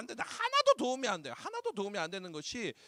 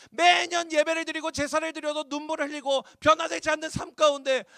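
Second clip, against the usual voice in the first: fervent preaching; 7 semitones higher, 6 dB louder than usual. Real, not acted. Full-force preaching.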